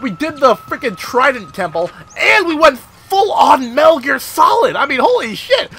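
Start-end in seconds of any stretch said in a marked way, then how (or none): none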